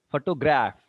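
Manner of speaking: photoGRAPH, weight on the last syllable; photograph with the final syllable stressed; third-syllable stress. Shown as a demonstration. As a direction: hit graph at the end of photograph. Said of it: "on the three syllables".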